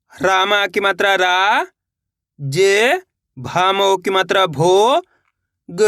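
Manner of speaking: slow repeat-after-me drill, "रा", "जे", "भो" held long and rising; syllable-by-syllable spelling. Shown as a demonstration. Teacher leading learners to repeat along, slowly spelled out. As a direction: stretch "रा" and "भो", "ग" on its own. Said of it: "मेरे साथ साथ इनको repeat करना है".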